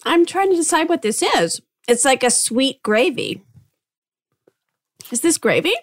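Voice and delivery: chewing while talking; mouth full. Real, not acted. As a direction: talk round a mouthful. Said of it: "talking with their mouth full".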